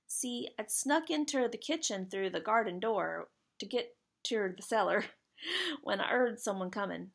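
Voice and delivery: badly faked British working-boy accent; attempted British accent. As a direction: have a go at a British lad's dialect. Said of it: "I'm trying to read it like he's saying it, but I can't do a British accent".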